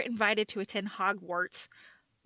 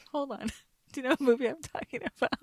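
ordinary talk, nothing marked

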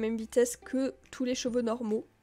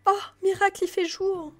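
much higher and louder, delighted exclamation; joyful surprise; 8 semitones higher, 6 dB louder than usual. Real, not acted. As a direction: crie de joie que le jour revient. Delighted that day returns. (joie soudaine, beaucoup plus aigu et plus fort)

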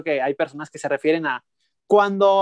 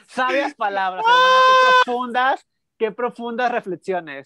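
mock admiration; 5 semitones higher than usual. Real, not acted. Mocking friend's proverbs.

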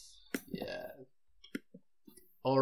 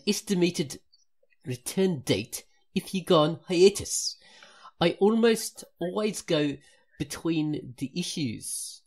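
put-on a light, uneven South African accent read aloud; amateur South African accent, slipping in and out; 2 semitones higher than usual. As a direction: read the fan message in a half-hearted South African accent. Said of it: "I actually got some South African there".

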